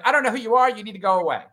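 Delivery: a firm get-away-from-me order to the ghost, retold; retold firm dismissal. Telling off a ghost relative.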